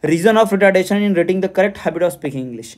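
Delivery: reads the exam question aloud slowly and deliberately; slow question reading. Acted. Teacher reading a quiz question to students, slow and deliberate. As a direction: dictate each word of the question slowly.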